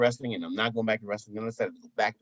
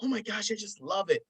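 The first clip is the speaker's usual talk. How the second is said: high imitated woman's gush; 9 semitones higher, 4 dB quieter than usual. Woman listening to his accent, high gushing imitation. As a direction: act out a smitten listener, pitched high. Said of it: "and she's like".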